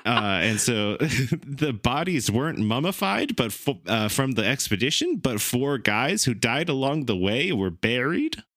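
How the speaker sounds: high, distraught heartbroken voice; just found out she cheated. Shown as a demonstration. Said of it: "Like you just found out that your girlfriend cheated on you".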